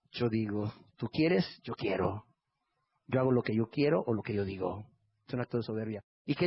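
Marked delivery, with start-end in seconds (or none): 0.1-4.9 lower, self-willed voice of the proud; defiant sinner. Acted. Proud person answering back to God, defiant. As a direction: voice a proud man's low, firm refusal. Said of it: "O delante de Dios y decirles".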